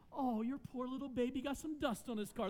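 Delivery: mock the neighbor's son as a whiny baby; mocking sarcasm. Pastor mocks the son who threw a fork, sarcastic sneer. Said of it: "what I wanted to say was".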